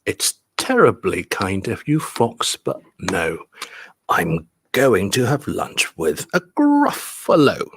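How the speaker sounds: beats on "terribly", "kind", "Fox", "no"; measured reading, pause before "Fox" and "but no"; rhythmic stress demo. Shown as a demonstration. Teacher leading class in reading together, clear beats on "terribly" and "Gruffalo". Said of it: "pay a lot of attention to the stresses".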